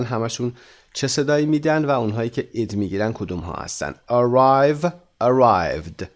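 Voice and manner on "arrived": "arrived" ending in a voiced D. Shown as a demonstration. Teacher drilling past forms, "arrived" closed with D. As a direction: say "arrived" with D, no added syllable.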